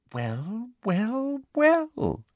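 soft, rising triumphant gloat. A narrator's reading. Umbridge gloats as Hermione gives in, triumphant. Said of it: "looking triumphant".

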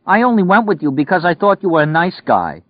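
high, loud wailing woman; hurt girlfriend sobbing it out; tearful wail. Acted.

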